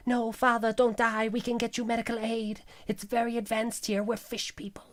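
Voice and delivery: mock pleading son. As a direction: plead melodramatically with a dying father. Acting Benthar pleading with dying father.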